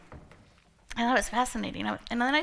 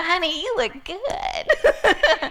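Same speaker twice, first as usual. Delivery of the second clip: slow, laughing admiration; drawn out through laughter; delighted laughing compliment; 8 semitones higher, 6 dB louder, much slower than usual. Retold or imitated. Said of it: "I go".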